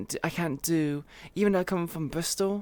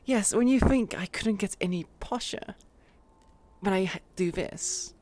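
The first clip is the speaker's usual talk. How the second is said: posher British. Acted. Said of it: "It sounds far more posh".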